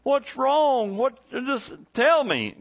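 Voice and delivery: a father anxiously begging his crying daughter; dad asking what's wrong. Retold or imitated. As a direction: press her to just say it. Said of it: "I said".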